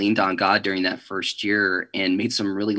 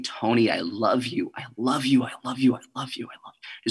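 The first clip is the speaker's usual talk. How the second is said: echoing voice; 4 dB quieter than usual. Retold or imitated. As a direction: imitate an echo, repeating and fading away. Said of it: "his voice echo through my head".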